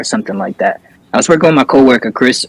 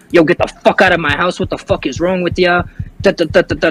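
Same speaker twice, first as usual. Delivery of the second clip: higher-pitched, mild mock rant; retold angry outburst; 4 semitones higher than usual. Revived man spazzes on cops and EMTs, mild retold anger. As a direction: imitate an irate man without shouting. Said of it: "starts spazzing on the cops".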